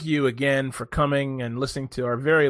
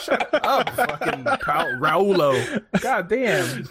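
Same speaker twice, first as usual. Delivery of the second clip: mock annoyed at a friend's word; laughing mock outburst; 3 semitones higher, much slower than usual. Real, not acted. Teasing a friend over his pronunciation, laughing shut up.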